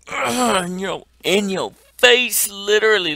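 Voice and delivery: loud, high gloating yell; taunting cheer. Real, not acted. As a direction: rub it in his face. Plane hits the boss in the face.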